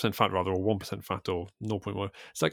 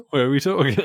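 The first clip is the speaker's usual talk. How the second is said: louder, pushing the question again; repeating louder after being misunderstood; louder insistent repeat; 4 semitones higher, 8 dB louder than usual. Shown as a demonstration. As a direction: insist on "where are we talking" louder. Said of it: "what do you mean, where?".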